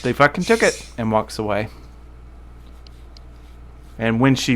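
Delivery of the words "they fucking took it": higher, briefly voiced distraught soldier; a hint of distress in a soldier's voice. Soldier says it and walks away, lightly distraught. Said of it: "she just says".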